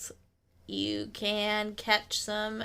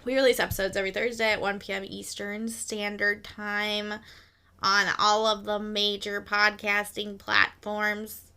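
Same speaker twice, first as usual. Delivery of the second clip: robot voice. Acted. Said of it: "Are you trying to do, like, the Midwestern accent or, or robot accent?".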